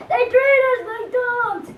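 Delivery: a civilian's protest cry, yelled. Retold or imitated. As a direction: shout it like a furious farmer. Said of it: "As one civilian yelled out".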